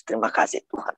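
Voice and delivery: soft, near-whispered prayer; hushed thanks. Retold or imitated. Mother thanks Tuhan for timely money, hushed. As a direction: give thanks under the breath.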